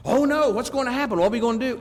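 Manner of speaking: high-pitched, acted-out fretting; mock panic. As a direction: play a believer suddenly flustered. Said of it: "they go into ultimate Christian spiritual panic mode".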